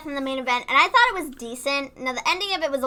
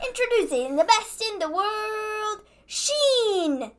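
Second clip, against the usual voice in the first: put-on high-pitched little kid's ring introduction; funny toddler announcer imitation; 9 semitones higher, slower than usual. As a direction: mimic a two-year-old announcing a wrestler. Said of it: "He says it so funny and is like".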